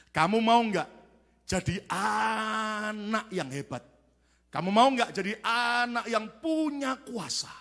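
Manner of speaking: drawn-out, coaxing mysterious voice; tempting devil voice. Retold or imitated. Devil tempting an eight-year-old boy, drawn-out coaxing. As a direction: lure the child with long stretched words. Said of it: "ada suara bisikan yang dia dengar".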